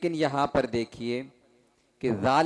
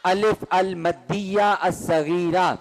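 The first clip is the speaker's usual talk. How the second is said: slow loud recitation; slower than usual. Shown as a demonstration. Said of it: "بلند آواز سے".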